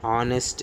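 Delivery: "honest" begun on the O vowel; silent H. Shown as a demonstration. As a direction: say "honest" with no H sound. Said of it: "దాన్ని ఓలా పలుకుతాం".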